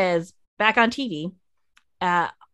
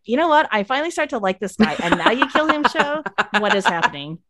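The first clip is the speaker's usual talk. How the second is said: exasperated rant; 3 semitones higher than usual. Retold or imitated. Annoyed at the show killing him.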